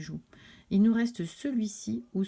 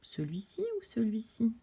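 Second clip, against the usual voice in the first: chuchoté; 6 dB quieter than usual. Acted. Question complice aux élèves.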